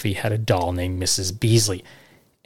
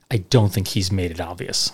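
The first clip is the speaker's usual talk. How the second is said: sarcastic; 2 semitones lower than usual. Real, not acted. Host teasing a kid's Lone Ranger obsession, deadpan sarcastic. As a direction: say it flat, tongue in cheek. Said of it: "I'm being sarcastic there".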